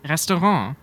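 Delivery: "Restaurant" French-style without its final t; German pronunciation. Shown as a demonstration. German guest models the word, "Restaurant" with the last letters left out. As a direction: say "Restaurant" ending on a nasal "on". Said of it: "leaving out letters".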